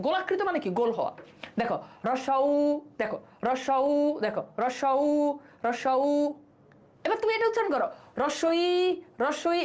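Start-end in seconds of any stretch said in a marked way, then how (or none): 1.6-6.0 রস্যউ with lips made round; rounded vowel demo. Shown as a demonstration. Teacher repeats রস্যউ to show round lips. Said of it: "গোল হয়ে যায়".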